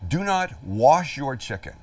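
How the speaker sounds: slow, weighty stress on "do not wash your chicken"; emphatic warning. Real, not acted. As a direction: spell out "do not wash" as a firm rule. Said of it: "I cannot stress this enough".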